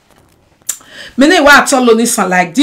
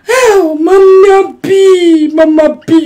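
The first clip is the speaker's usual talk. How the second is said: mock wailing; 3 semitones higher, slower than usual. Wailing at Mama B mockingly.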